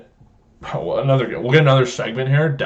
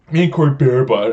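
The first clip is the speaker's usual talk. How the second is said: slightly louder imitation of a cousin; Corey Bearbutt; 2 semitones higher, 5 dB louder than usual. Host introducing his cousin in a story, imitating his voice. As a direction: put on the cousin's way of talking. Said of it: "that's exactly how he talks".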